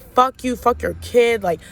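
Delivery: string of curses, mildly heated; retold going off. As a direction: retell yourself cussing someone out, without shouting. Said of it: "Like, I was going off".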